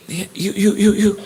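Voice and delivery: single someone out with urgent repeats; insistent calling out. Retold or imitated. Preacher picking out a man in the crowd, insistently calling.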